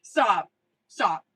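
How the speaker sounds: loud, laughing protest; laughing stop. Real, not acted. Flustered at the tarot card, laughing loud protest. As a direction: laugh and beg her to stop.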